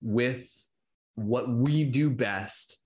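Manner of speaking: slow, measured spoken-word delivery; poetry recital. Acted. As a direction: recite it like a stage poem. Spoken word poem performance.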